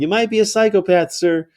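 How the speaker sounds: high-pitched, smiling needling of a stranger; 带笑回敬. Retold or imitated. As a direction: say it through a smile, politely insulting. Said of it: "And I smile".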